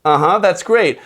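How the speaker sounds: chirpy reply. Shown as a demonstration. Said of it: "a little bit of variety".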